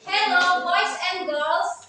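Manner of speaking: teacher showing the greeting again, loud and slow. Shown as a demonstration. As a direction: call it out slowly to everyone. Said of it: "suaranya dikencengkan supaya kedengaran".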